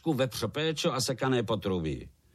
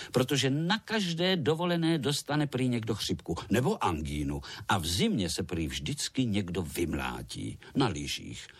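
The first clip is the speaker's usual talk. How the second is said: plain reading voice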